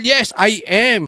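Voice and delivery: slow, stretched-out admission; hammed-up slow yes; mock confessing. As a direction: agree slowly to the absurd charge. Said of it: "Sasabihin ko".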